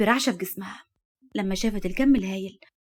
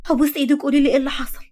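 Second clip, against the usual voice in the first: quick, high begging; fast pleading; 4 semitones higher, 3 dB louder than usual. Acted. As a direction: rush the question, imploring. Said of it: "ردت عليها بتوسل". (توسل سريع ملهوف)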